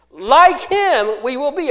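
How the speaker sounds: slow, loud, high emphasis on "like him"; stress on LIKE HIM. Shown as a demonstration. Preacher reads out the Greek word order, emphatic. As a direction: punch "like him", then let "we will be" follow. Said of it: "What's the emphasis there?".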